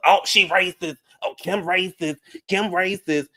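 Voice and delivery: high-pitched hammed-up outcry; mock outrage. Host mimicking people who accused Kim, mock outrage.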